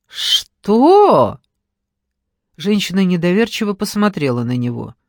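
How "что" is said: резко вверх, громко, с неверием; взвиться от неверия; недоверчивое «что». A narrator's reading. Недоверчивый возглас женщины. (ошарашенное «Что?» громко и высоко)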